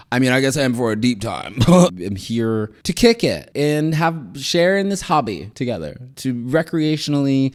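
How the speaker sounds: 笑着说; laughing. Real, not acted. Laughing self-correction.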